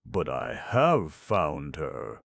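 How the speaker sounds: slow, tired protest; weary deprecation. Acted. Exhausted stranger protesting to aunt, slow and weary. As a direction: plead it wearily and slowly. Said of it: "with an accent of weary deprecation".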